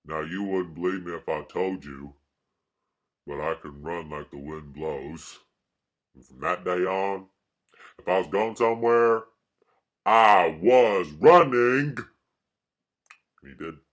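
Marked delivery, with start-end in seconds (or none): 0.1-12.0 Southern movie-hero impression building to a shout; Forrest Gump. Reciting the film line about running, Southern impression. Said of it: "He says".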